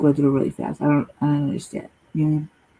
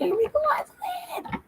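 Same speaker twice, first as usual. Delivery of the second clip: high squeaky joke voice; 7 dB quieter than usual. Real, not acted. Joking claim.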